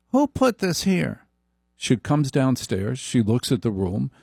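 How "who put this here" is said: high, slow nagging wife voice. Retold or imitated. Wife complaining to husband, high and nagging. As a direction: whine it like a fussy wife. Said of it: "it starts with".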